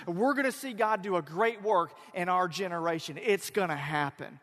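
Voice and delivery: loud, emphatic prophetic declaration; bold proclamation. Acted. Jonah promising Israel that God will act, bold proclamation. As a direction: proclaim it with rousing conviction.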